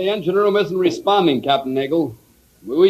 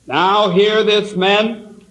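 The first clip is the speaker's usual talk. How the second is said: ship's announcement; much slower than usual. Acted. Bosun's call to crew.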